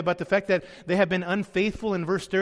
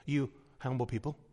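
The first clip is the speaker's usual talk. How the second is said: ordinary talk, nothing marked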